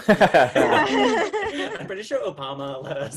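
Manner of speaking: laughing. Real, not acted. Joke about gay rights, laughing.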